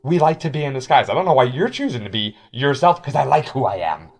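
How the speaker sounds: lightly silly voice, loud, starting high and settling down; stupid voice. Acted. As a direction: defend yourself in a mildly silly loud voice. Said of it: "that stupid voice".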